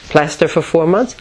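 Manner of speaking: retold resistance, mildly incredulous at the idea; sealed-off refusal. Facing months in plaster, sealed-off refusal. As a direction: balk at it, in an understated way. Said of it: "sealed off like Teflon".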